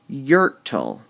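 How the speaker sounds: Yertle with YER leaned on, falling; stress on Yertle again. Shown as a demonstration. Teacher repeats Yertle for the class, stressed. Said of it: "they might need a little help".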